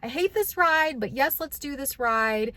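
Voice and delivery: mock scared. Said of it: "I'm scared".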